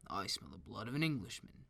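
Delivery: a giant sniffing out his prey, bellowing; lightly hammed-up giant roar. A narrator's reading. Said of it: "the giant roared".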